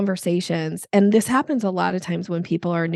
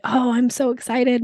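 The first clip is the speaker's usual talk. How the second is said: excited answer; 5 semitones higher than usual. Shown as a demonstration. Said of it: "Or I could say".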